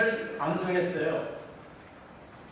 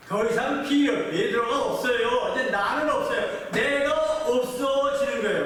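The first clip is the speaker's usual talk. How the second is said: building preaching; 3 semitones higher than usual. Acted. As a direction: build the point to its climax. (점점 힘주어 설교하듯)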